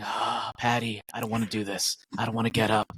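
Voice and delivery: imitated gloomy morning sigh; depressed muttering to dog. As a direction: groan it out like a weary, miserable friend. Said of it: "whispering to his dog, going".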